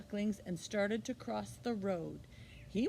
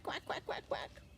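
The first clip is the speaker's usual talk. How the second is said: whispered quacks; 8 semitones higher, 5 dB quieter than usual. A narrator's reading. Ducklings quacking, fading.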